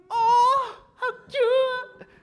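high delighted cooing; audience cooing. Real, not acted. Listeners melt at the love story, high cooing. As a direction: crowd goes aww together.

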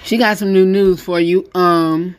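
talking while chewing ice; words around a mouthful of crunched ice; crunching ice. Real, not acted. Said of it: "I'm crunching on ice".

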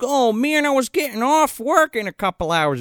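high-pitched mock whine; whining complaint. Podcaster voicing a ranger kept late at work, whining. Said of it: "And he's like".

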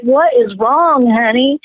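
slow, caring question; lightly voiced gentle stranger, slow; tender concern. Stranger comforting the crying speaker, slow and tender.

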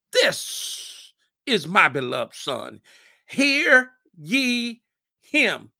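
God speaking from heaven, slow and solemn. Acted. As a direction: boom it down from the sky, slowly. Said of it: "a voice came out of heaven".

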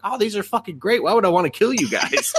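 put-on high, dim little-girl voice; childish demon girl. Demon queen announces her goal, high and childish. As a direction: play it like a ditzy kid. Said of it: "She's like".

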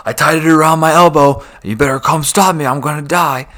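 put-on high, loud whiny kid voice; hammed-up bratty kid taunting; mock whiny kid. Mocking the kid's threat.

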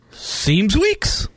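"Seems weeks" said as "seemz weeks", rising; "Seems weeks" spoken as two flat words; seems weeks demo. Shown as a demonstration. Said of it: "you need to say".

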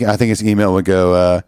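ordinary talk

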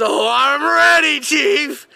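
high, hammed-up eager kid; over-keen reply. Student answering teacher before the eye wash, over-keen. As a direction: call it out high, imitating a too-keen classmate.

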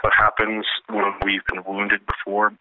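hypnotist lulling a listener; calming voice. Pretend. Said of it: "Is that voice calming?".

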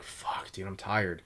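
drained private grumbling under his breath; tired mutter. Retold or imitated. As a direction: mumble it half asleep, mock exhausted. Exhausted new guy mutters.

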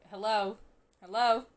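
lightly voiced anxious hello; imitating a worried call. Retelling Charlie calling after Nick, mild worried hello. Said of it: "and he's like".

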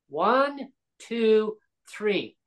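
"One, two, three" starting high, stepping down; counting out years. Real, not acted. Spelling out the delay to Krista Freeland, counting emphatically. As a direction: count each year off, falling.

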